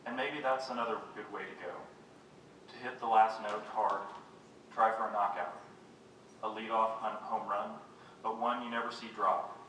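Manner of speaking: measured poetry-reading voice; poem reading. Acted. Poet reads to an audience about rain, measured recital. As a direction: read it as verse, pausing at line ends.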